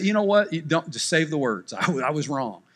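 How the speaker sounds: sheepish fast apology with a laugh; mock apology. Shown as a demonstration. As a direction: give up before he finishes. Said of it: "just apologize and say".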